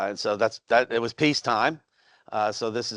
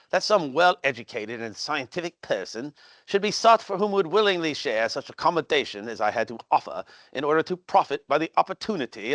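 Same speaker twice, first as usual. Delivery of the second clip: mock English accent. Shown as a demonstration. Tour guide reading the Beagle letter to visitors, in a mild mock English accent. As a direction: read it like a self-mocking American doing English. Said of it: "best slash worst English accent".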